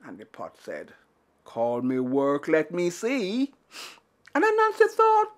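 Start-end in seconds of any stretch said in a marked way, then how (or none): 1.4-3.5 lower, slow, deliberate pot voice; slow magic pot. Acted. Magic pot answering Anansi, slow and low. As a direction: lay it down slowly, mysterious and sure.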